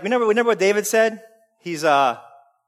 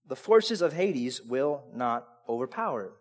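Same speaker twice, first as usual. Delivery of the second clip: much lower and softer, steady; calm low proclamation; 12 semitones lower, 10 dB quieter than usual. Acted. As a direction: answer with quiet certainty. Quoting Jesus' calm answer.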